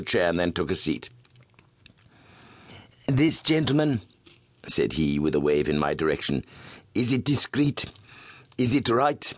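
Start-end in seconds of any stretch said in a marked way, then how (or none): 3.1-4.0 smooth suave voice. Acted. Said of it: "His voice was as smooth and suave". 6.9-9.3 smooth suave voice. Acted. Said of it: "His voice was as smooth and suave".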